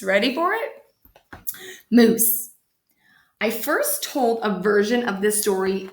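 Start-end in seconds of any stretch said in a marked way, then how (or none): 1.9-2.5 breathy whispered title. Acted. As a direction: hush it like a secret.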